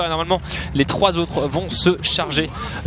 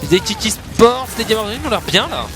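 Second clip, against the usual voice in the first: fighting game announcer; 4 semitones higher than usual. Real, not acted. Tense late push, rising hype.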